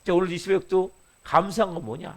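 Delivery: normal talking voice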